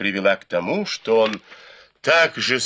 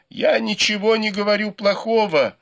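yelled protest; 11 semitones higher than usual. A narrator's reading. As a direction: shout it out in protest. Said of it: "выкрикнул Сюэпань".

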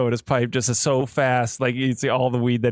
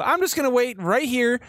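sulky declaration; 9 semitones higher than usual. Acted. Sulking character declares he'll wait.

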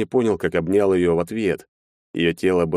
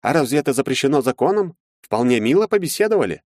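higher reassuring tone, glib; evasive lawyer; 7 semitones higher than usual. A narrator's reading. Lawyer to Maxim, higher and evasive. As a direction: brush off the question smoothly.

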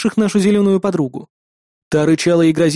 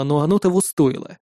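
usual speaking voice

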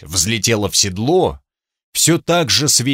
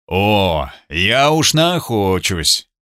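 overly heartfelt; 2 semitones lower, much slower than usual. Acted. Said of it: "чересчур прочувствованно".

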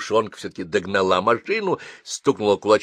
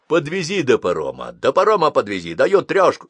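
higher, louder, pressing plea; urgent pleading thug; 6 semitones higher, 6 dB louder than usual. Acted. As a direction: lean on him, hurry him up. Thug begs driver for ride.

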